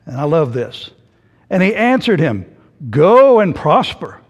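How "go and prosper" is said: slow, drawn-out mock encouragement; sarcastic. Micaiah answering the king's question, sarcastic. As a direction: stretch out "go" with dripping sarcasm. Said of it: "I'm reading it the way I believe he said it".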